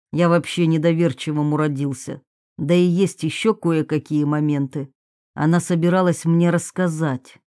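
a hint of Dalmatov, measured and low; lightly voiced distrustful man. Sceptic explains his doubts about a death, lightly voiced low. Novel figure Dalmatov speaks.

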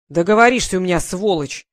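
loud, menacing snarl at the steward; a rough soldier's angry threat. Acted.

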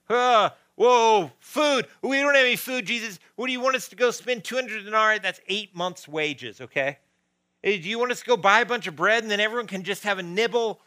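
high, loud, flustered disciples; incredulous protest. Acted. Disciples told to feed thousands, incredulous protest. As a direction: object loudly with mock panic, rushing the questions.

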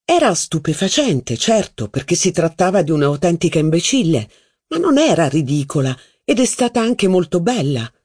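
a noblewoman brushing the point aside; protesting duchess. Acted. Duchess voiced in reading.

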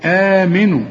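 آمنوا opening on a long "aa"; full alif. Shown as a demonstration. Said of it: "بتديك ألف كاملة". (مد الألف في آمنوا)

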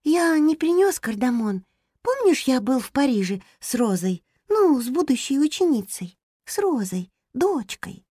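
high, gentle little hamster voice. Acted. (высокий голос хомячка)

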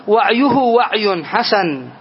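slow, deliberate وعي حسن; slow careful example. Shown as a demonstration. Teacher slowly models وعي حسن for students, deliberately. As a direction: drag out وعي حسن word by word. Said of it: "فنقول".

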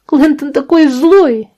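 put-on high, slow little-girl voice; child's complaint. A narrator's reading. Daughter complaining about her brother, high child voice.

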